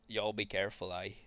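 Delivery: put-on lightly Scottish-accented warning; a hint of a Scottish lilt on y'all. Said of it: "y'all in a Scottish accent".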